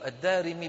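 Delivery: الدارمي said "ad-Darimi", with i after the r; kasra on ra. Shown as a demonstration. Teacher naming the vowel for students, pronounced "ad-Darimi". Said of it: "بكسر الراء".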